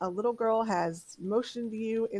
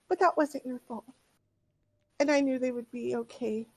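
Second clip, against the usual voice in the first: put-on high, earnest child; a child reassuring the group; little girl voice; 5 semitones higher than usual.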